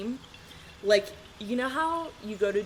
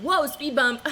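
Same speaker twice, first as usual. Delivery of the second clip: louder, higher mock yelp; sudden alarm; 7 semitones higher, 8 dB louder than usual. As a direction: blurt it out like hitting a bump. Acted jolt while doing liner.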